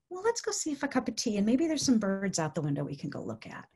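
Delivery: gentle suggestion. Shown as a demonstration. Gently moving a sad person on.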